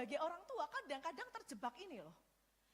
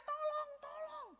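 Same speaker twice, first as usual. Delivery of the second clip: high, slow, drawn-out call for help; a pleading "Tolong, tolong" pitched high and slow; crying for help; 11 semitones higher, slower than usual. Retold or imitated. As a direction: call out like someone hurt begging for rescue. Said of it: "dia akan teriak".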